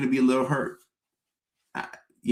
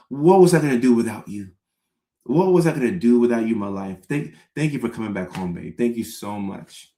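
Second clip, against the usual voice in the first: mock gratitude; 2 semitones lower than usual. Overdone gratitude to partner.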